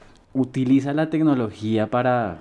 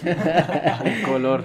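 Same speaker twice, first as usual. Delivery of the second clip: laughing; 6 semitones higher, much slower than usual. Real, not acted. Laughing at taste joke.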